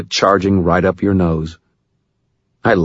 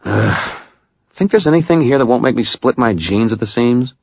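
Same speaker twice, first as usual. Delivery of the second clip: higher, fed-up woman's voice; Murphy voice; 6 semitones higher than usual. A narrator's reading. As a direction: voice Murphy, grumbling. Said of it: "She sighed".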